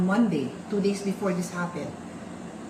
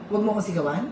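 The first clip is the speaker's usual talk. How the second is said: incredulous echo; 3 semitones lower, much faster than usual. Retold or imitated. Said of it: "Ano ba dapat ang sabihin mo?".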